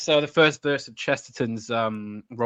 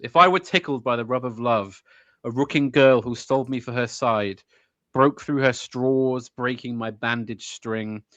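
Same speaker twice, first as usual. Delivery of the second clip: measured verse, slowing through the lines; poem recital; slower than usual. Acted. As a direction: recite deliberately, pausing between lines.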